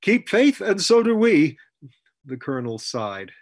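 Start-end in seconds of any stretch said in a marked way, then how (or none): 0.0-1.6 high, very loud ceremonial call; superhuman bellow. A narrator's reading. Rollo calls the countersign to the colonel, huge bellow. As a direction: bellow the password out at full force. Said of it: "in that superhuman bellow called".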